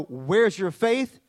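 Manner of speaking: mock rebuke. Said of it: "You see no rebuke".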